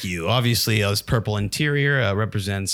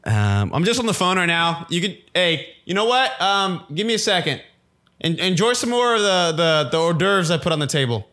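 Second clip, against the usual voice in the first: higher, sugary host voice to distract; high fake polite voice; 7 semitones higher than usual. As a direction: sweetly shoo the guest away.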